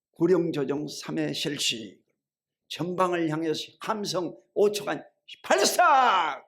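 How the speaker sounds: mock military yell on the final order; imitated army command. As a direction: drill order rising to a shouted last word. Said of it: "막 소리를 크게 지릅니다".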